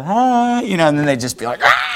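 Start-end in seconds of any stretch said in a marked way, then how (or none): 0.0-0.6 high, drawn-out cheery hi; big-smile greeting. Retold or imitated. Dad answering an enraged driver, big-smile greeting. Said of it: "just smile real big and go". 1.6-1.9 short imitated scream of frustration; mock freak-out yell. Enraged driver greeted by dad, mock freak-out yell. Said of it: "Then they would really freak out".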